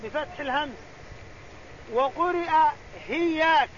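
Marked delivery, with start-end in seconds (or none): 3.1-3.7 هياك begun with a breathy h; هياك said hiyyāka with h in place of the hamza. Shown as a demonstration. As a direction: swap the glottal stop for h in هياك. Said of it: "بالهاء".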